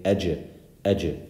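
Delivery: "ej" with a bounce after the hard j; qalqala bounce. Shown as a demonstration. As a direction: let the j of "ej" pop open briefly. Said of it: "we do qalqala".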